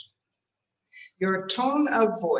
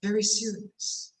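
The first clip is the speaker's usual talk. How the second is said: very serious tone; 3 dB quieter than usual. Shown as a demonstration. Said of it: "you want to talk like this".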